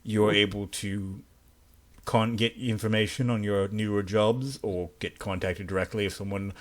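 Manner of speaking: measured official dismissal; icy polite interrogator. Acted. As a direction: speak as a formal superior, coolly polite. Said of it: "I'm talking in the interrogator's voice".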